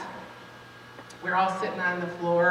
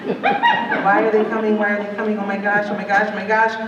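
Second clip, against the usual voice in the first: put-on panicked child; 2 semitones higher, 6 dB louder than usual.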